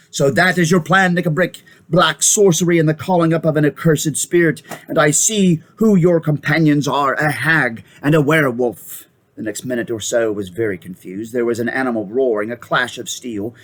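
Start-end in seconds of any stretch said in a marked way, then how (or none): 0.1-9.1 thundering king. Acted. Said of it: "like thunder".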